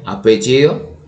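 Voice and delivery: slow, spelled-out dictation pace; teacher dictating a citation format slowly. Shown as a demonstration. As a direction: dictate each part slowly for students to copy. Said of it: "así se debe insertar".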